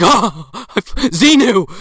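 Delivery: very slow, loud laughing cry; hammed-up ecstatic cry; laughing mock revelation. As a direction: drag it out laughing. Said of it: "He's like".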